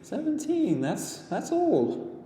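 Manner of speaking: put-on high, slow, deflated child; young girl crestfallen at his age; hopeless girl. A narrator's reading. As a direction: let the words sink with disappointment. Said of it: "said Winnie hopelessly".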